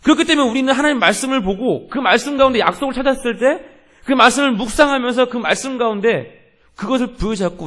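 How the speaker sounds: high, loud, driving pulpit delivery; forceful preaching. Real, not acted. Pastor urging congregation to cling to God's promise, forceful preaching.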